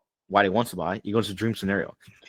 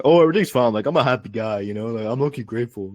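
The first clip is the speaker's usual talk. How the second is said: hammed-up breezy denial; mock fake-happy prospect. Coach mocking a prospect who claims everything is fine, mock cheerful. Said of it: "I hate motherfuckers that say shit".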